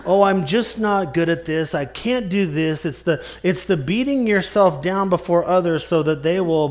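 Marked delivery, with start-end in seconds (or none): 0.1-2.8 mild mock moping; mock self-pity. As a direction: mimic someone fishing for compliments. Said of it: "woe is me" type of mentality".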